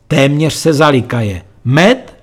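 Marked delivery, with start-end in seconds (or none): 1.6-2.1 higher, louder mocking laugh-word; roaring with laughter. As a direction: howl it through laughter. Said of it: "řval smíchy kamarád".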